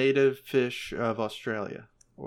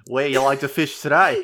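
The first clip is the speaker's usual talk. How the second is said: louder mock-Australian question; playful attempt at an Australian accent; 2 semitones higher, 6 dB louder than usual. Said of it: "he's got an Australian accent".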